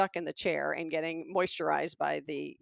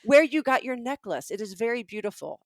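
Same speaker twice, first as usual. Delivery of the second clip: put-on Israeli accent, pitched up at first; terrible Israeli accent; 4 semitones higher, 4 dB louder than usual. Kiosk seller asking about her necklace, mock Israeli accent. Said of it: "it's a terrible Israeli accent".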